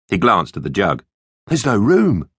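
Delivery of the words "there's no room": Matt. Acted.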